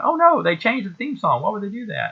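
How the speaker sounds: high, whiny cry of dismay; mock outrage over the new theme song. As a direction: wail like a let-down kid. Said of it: "I remember going".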